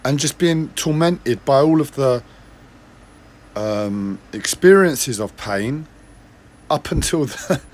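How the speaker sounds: real distress pushing through pain. Real, not acted. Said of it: "I'm very distressed".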